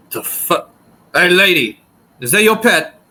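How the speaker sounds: a lightly voiced burly bartender, startled; hint of a rough tavern keeper; gruff bartender voice. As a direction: bartender barking at a lady about her pet.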